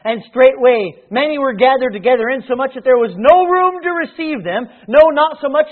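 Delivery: steady formal reading of scripture. Acted. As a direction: read the passage with weight. Reads scripture aloud.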